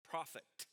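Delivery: prophet said alone, weighted and falling; isolated emphasis on Prophet; stressed prophet. Shown as a demonstration. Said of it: "I emphasized the word prophet".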